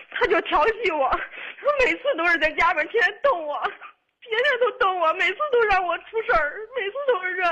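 pleading while starting to cry; upset caller near tears, pitch climbing; tearful, rising upset. Real, not acted. Caller complains, host soothes her crying.

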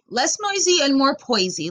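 scoffing mock quote; mocking repeat. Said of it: "Like, what the fuck?".

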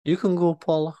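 Scottish manager sends a worker off; Scottish accent. Acted. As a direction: dismiss her in a Scottish accent. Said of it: "better Scottish accent than I'm portraying".

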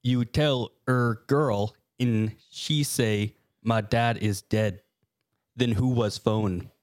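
slow, halting story read; deliberate literal reading. Acted. Clay reads a badly written creepypasta to co-hosts, slow and deliberate. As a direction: read it word by word, drawn out. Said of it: "I'm reading it exactly as it's written".

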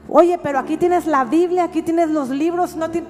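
mock their excuses with loud emphasis; mocking imitation. Preacher acting out customers dodging her bookshop, mocking and emphatic.

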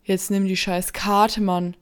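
loud angry yell; shouting. Acted. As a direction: yell at him to take it. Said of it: "schrie Markus ihn an".

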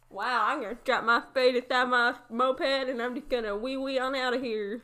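mock a clueless lowlife in a Southern accent; hammed-up Southern bragging. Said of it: "doing a southern accent".

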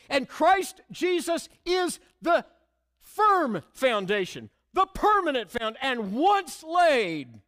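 preacher rising to a climax before the church; preaching at full force. Acted. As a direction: proclaim it like a triumph.

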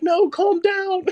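high, slow imitated plea to calm down; retold high-pitched calming; wife calming husband. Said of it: "his wife is calming him down".

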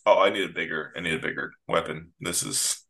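underplay it completely; a hint of Spock's deadpan. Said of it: "his deadpan".

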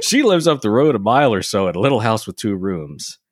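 stage-Irish lilt; Irish accent. Acted. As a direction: read it in a caricature Irish brogue. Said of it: "I can't differentiate two Irish accents".

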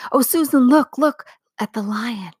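high, eager call to her sister; breathless girl calling look; excited cry. Acted. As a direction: point it out in wonder. Lucy cries out at the lion.

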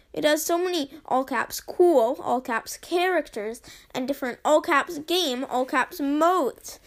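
hammed-up all-caps delivery; all caps emphasis. Shown as a demonstration. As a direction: shout the all-caps words. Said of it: "the amount of all caps".

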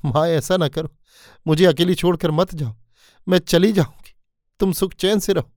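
daughter-in-law clinging to her mother-in-law's feet, mildly tearful; pleading in tears. Acted. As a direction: beg her not to leave, voice rising. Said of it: "रोने लगी थी".

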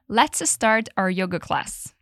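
slow, clear teacher model; slow model sentence. Shown as a demonstration. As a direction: say it slowly for students to repeat. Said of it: "Ready for the whole sentence?". (devagar, como modelo para repetir)

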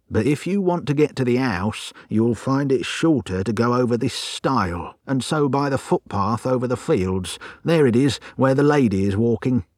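a hint of a country coachman; lightly voiced trap driver. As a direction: lightly play a driver giving directions.

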